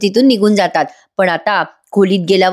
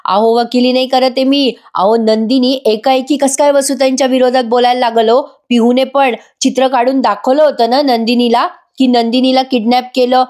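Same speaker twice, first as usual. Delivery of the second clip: mock forceful reply; 2 semitones higher than usual. Wife argues back at husband just as hard, mildly raised voice. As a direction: push back at him with equal force, half-acted. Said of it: "तेवढ्याच जोरात बोलतात".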